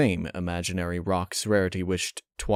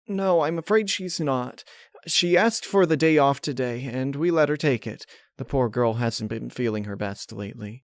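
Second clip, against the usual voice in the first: higher, gentle sorry baker; Mrs Cake voice; 5 semitones higher than usual. Acted. Mrs Cake telling Rainbow Pinkie is away, gentle and sorry.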